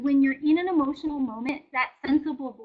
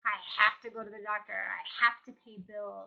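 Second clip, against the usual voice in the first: burdened chores list; 3 semitones lower than usual. Retold or imitated. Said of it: "changes the perspective and the attitude".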